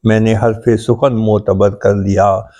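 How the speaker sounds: measured, metrical mushaira delivery; poetry recitation. Acted. Poet shares his ghazal with appreciative friends, reciting. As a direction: recite each line in rhythm, repeating it for the listeners.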